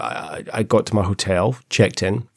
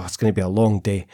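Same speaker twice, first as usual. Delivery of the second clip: put-on broad Scottish accent; 2 semitones lower, faster than usual. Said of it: "so I thought".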